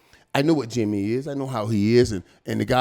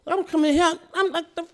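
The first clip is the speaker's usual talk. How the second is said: high, emotional; 11 semitones higher, 4 dB louder than usual. Real, not acted. Telling a friend about rookie tears, voice pitched high and near tearful. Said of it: "I'm literally boo-hoo crying".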